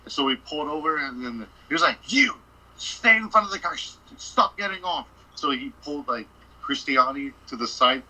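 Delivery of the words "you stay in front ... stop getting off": higher and louder, a cop barking orders; stern command. Retold or imitated. Ranger ordering the guys to stay by the car, stern. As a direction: order them to stay put.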